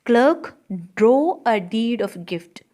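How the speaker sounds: commanding Portia. Acted. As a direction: order the clerk a bit grandly.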